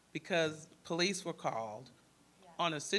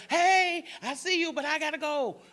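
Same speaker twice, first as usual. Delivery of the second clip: much higher, loud cheerful brush-off; breezy brush-off; 9 semitones higher, 9 dB louder than usual. Shown as a demonstration. Demonstrating to the girl how to brush off the counselor, bright and loud. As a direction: wave her off brightly on the way out. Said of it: "and you be like".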